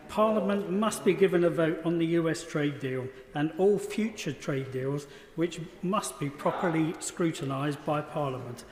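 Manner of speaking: hoarse, strained voice; losing voice. Real, not acted. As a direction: push through a voice that is going. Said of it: "I think I'm losing my voice".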